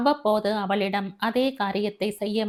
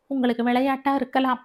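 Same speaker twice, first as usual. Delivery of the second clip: higher, fast, mildly angry outburst; bursting out; 4 semitones higher, faster than usual. Acted. Daughter bursts out at her father's excuse, mock angry. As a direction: snap back with a burst of temper. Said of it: "Kadambari வெடித்தாள்".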